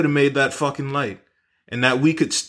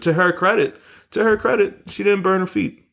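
raised, impressed tone; 8 semitones higher than usual. Real, not acted. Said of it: "mock admiration".

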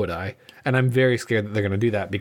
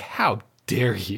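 mock indignant secretary; 4 semitones lower, much slower than usual. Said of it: "secretary is gonna be like".

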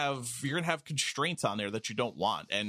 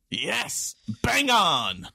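mock British reply; 9 semitones higher, 10 dB louder, much slower than usual. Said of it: "Henson's reply".

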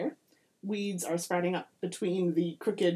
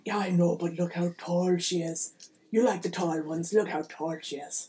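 leprechaun husband; 3 semitones lower than usual. Acted. Leprechaun husband protests to wife.

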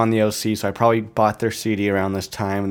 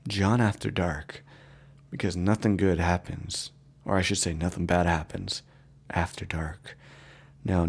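late-night radio voice; 2 semitones lower, 4 dB quieter than usual. Acted. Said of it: "radio voice".

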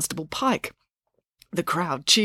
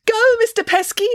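excited cheer; 5 dB louder than usual. A narrator's reading. Loretta cheering Dad on.

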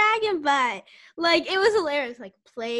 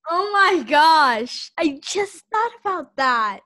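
surprised; 5 dB louder, slower than usual. Real, not acted. Sudden realization.

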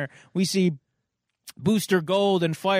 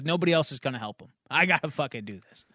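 lower, quick tough-guy mutter; a hint of a gruff hero; Superman voice; 4 semitones lower, 3 dB quieter, faster than usual. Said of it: "saying it with the Superman eloquency".

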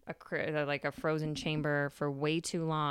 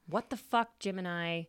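exasperated outburst. Retold or imitated. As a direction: blurt it out, fed up with the chaos. Virgo snapping at Gemini.

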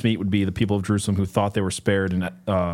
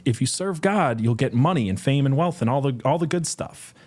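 lightly mocked prosperity preacher pitch, higher voice; Joel Osteen; 5 semitones higher than usual. Quoting pastors who promise money and fame, light imitation. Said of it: "pastors like Joel Osteen that are like".

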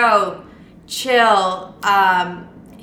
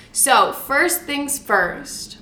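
slow, panting between words; breathless, catching her breath; much slower than usual. Real, not acted. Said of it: "I'm a little out of breath right now".

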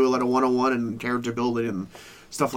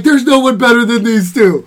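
high, loud hyped-up announcer; mock announcer voice; 8 semitones higher, 9 dB louder than usual. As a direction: overhype it like a TV commentator. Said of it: "They'd be like".

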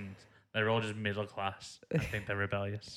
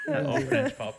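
high loud echo; excited; 5 dB louder, slower than usual. Real, not acted. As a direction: bounce it back up high. Playful echo.

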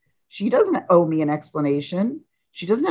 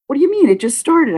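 retold shock; 7 semitones higher, 4 dB louder than usual. Shocked at being told they're leaving.

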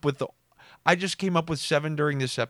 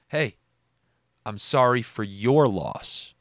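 slow, pointed sympathy with stress on "your"; smug condolence; slower than usual. Retold or imitated. Cousin shaking hands at a funeral, smug dig. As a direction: offer condolences smugly, leaning on "your". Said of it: "he had a smug way of calling us out".

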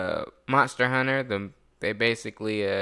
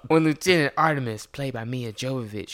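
movie trailer voice; 2 semitones higher than usual. Acted. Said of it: "let me get my movie trailer voice".

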